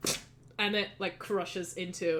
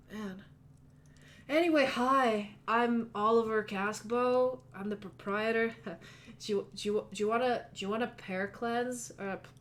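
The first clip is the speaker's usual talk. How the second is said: a hint of a chill, spaced-out gym owner; mellow stoner. GM voices stoner proprietor.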